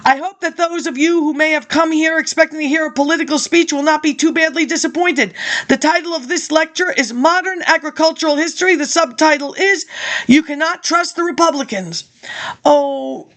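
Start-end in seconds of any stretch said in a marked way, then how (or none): 0.1-12.0 reading out a speech, steady and measured; formal speech read. Acted. Reading an old lecture to listeners, formal speech. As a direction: deliver it like a campaign address.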